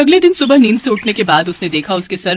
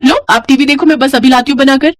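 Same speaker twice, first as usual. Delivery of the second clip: put-on higher-pitched young wife, obliging; lightly voiced daughter-in-law; 4 semitones higher, 4 dB louder than usual.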